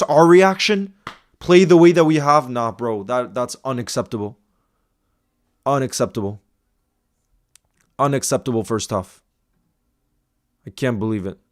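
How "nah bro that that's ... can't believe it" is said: softer and lower, sinking into despair; real quiet dismay; deflated disgust. Real, not acted. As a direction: mutter it like you've given up. Fan deflated by the first half.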